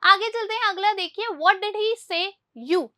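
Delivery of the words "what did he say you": very slow, word by word, for the class; slow dictation. Shown as a demonstration. Teacher reads the English example to pupils very slowly. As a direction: spell out every word for Hindi-speaking pupils. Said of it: "teacher reads example sentence slowly".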